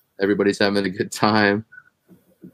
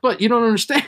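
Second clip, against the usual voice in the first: pleading; 11 semitones higher, faster than usual. Retold or imitated. Pleading with cop.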